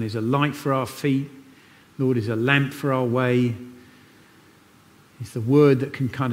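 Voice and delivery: steady, earnest prayer voice; closing church prayer. Acted. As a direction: lead the congregation in prayer.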